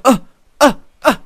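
short, high imitated nervous noises; little startled "uh" sounds, put on; mock nervous yelps. Podcaster imitating Vicky watching show jumping, mock nervous. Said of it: "like, nervous".

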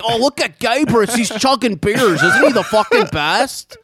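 high, slow sarcastic gushing; mock the fans adoring him; high sing-song mockery of a fan. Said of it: "It's all like".

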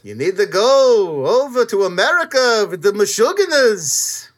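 put-on hammy singsong old Jewish accent. Mother sending Diana to America, exaggerated old Jewish accent. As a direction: lilt it like a caricature Yiddish elder. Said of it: "in my old Jew accent".

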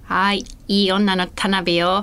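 slow, drawn-out sultry comedian voice; Tanabe impression. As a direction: stretch it out in a put-on diva voice. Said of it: "田辺、全然似てるよ".

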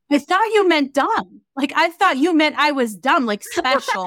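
a self-mocking dumb-kid voice. Retelling own naive reply to mom.

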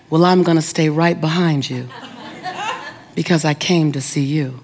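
low, measured, stately lady; lightly voiced composed regal woman. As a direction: answer with unhurried poise, pausing. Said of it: "And she was regal".

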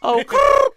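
"grrr" with a long trilled rolled r, high. Shown as a demonstration. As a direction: roll the r in "grrr" hard and high. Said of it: "you can roll your R's very well".

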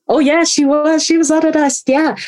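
playing along with a cheerful fib; feigned breezy lie. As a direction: breeze through the lie like it's nothing. Lying on phone about deployment.

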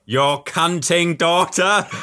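put-on slow, high, eerie little girl voice; creepy girl quote. Repeating the film's creepy girl line, slow and high. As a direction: drag it out like a creepy child. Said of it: "she just goes".

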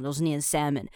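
salmon with the L left out; salmon, silent L. Shown as a demonstration. Teacher models salmon for learners, L silent. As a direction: say salmon as SAM-un, no L sound. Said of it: "八成的人呢，都是念salmon".

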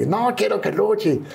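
high, drawn-out mock yell, no real volume; retold angry shout. Father forbidding his son to wrestle, retold shouting. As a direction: imitate a father laying down the law. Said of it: "entonces me, me gritó".

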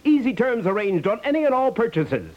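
ordinary talk

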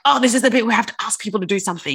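hurried, gabbled quote; rushed through. Retold or imitated. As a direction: rattle it off fast. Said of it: "It's like".

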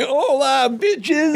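goofy over-the-top entrance line; Farley voice. Retold or imitated. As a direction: bellow it like Chris Farley on a roll. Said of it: "And he's like".

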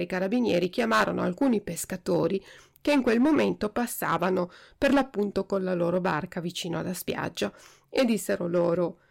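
usual speaking voice

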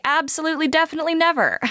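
squeaky, emphatic no way; high mock outrage. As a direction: pitch it up like you're appalled. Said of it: "I was like".

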